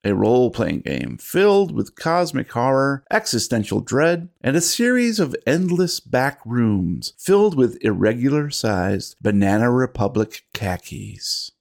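theatrical announcer voice; podcast host intro. Acted. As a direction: play the dramatic keeper of lore. Host's podcast opening.

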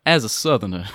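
put-on Southern "southerner"; Southern accent. Shown as a demonstration.

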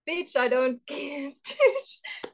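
high, slow botched Welsh, cracking up; Welsh-meets-Indian accent broken by laughter; bad Welsh accent. Contestant losing it mid-monologue, laughing bad Welsh accent. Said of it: "cannot not sound Indian doing this".

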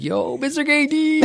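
high laughing call; calling out to friend. Retold or imitated. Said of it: "he's like".

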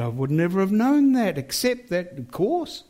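lightly voiced young woman's words; voicing the young woman. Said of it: "And she said".

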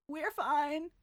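a mock wheeze, squeezed out; Fitz. A narrator's reading. Crushed man reassuring others from the railing, wheezing. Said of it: "Fitz wheezes".

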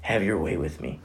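soft, low prayer of surrender; humble surrender. Acted. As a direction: hand yourself over to the Lord, hushed. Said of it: "have the mindset to say".

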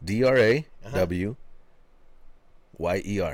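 slow letter-by-letter D R A W Y E R; sounding out words. Shown as a demonstration. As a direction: spell out D R A W Y E R letter by letter, slowly. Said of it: "when I sounded it out".

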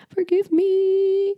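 high, drawn-out mock begging; mock plea. Apologizing for sounding patronizing, playfully pleading.

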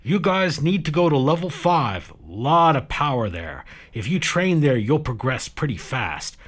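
breezy. Acted. Baron giving advice.

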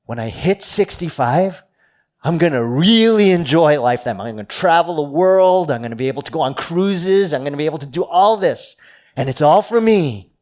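a hint of the smug rich man planning his retirement; rich man dreaming. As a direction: sell the dream of cruises and retirement.

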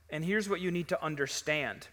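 ordinary talk, nothing marked

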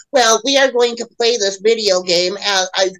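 lightly put-on mock-serious voice; mock stuffy local. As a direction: imitate an earnest, oblivious local. Imitating the people he joked with.

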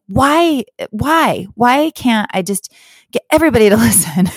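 high, self-mocking wail of why, breaking into a laugh; a hammed-up cry of frustration at yourself; mock whining. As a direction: whine it at yourself, half laughing. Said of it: "I was like".

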